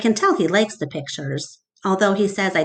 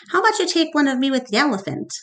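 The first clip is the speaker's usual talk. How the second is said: showy Mac; 6 semitones higher, much faster than usual. Acted. Mac showing off.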